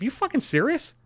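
high incredulous rant at the woman; incredulous outburst. Retold or imitated. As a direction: escalate into outraged disbelief. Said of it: "I'm thinking to myself".

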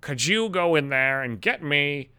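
slow, lightly voiced old woman asking a favour; a hint of a weathered old woman, slow; mimicking the old woman. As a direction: drag out the request slowly. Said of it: "And she's like".

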